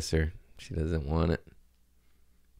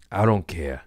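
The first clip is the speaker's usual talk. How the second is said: whispered. Retold or imitated. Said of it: "be like".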